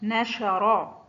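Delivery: نشرا said very slowly, each sound clear; very slow classroom model of نشرا; slow example word. Shown as a demonstration. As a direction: draw out نشرا for the pupils. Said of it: "شا وسط الكلمة".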